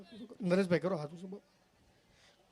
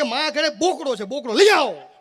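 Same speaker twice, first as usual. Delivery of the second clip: higher, louder eager suggestion, laughing at the end; eager villager; 4 semitones higher, 8 dB louder, slower than usual. Retold or imitated. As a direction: pitch it up and push it out with excitement. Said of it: "એક જણો કે".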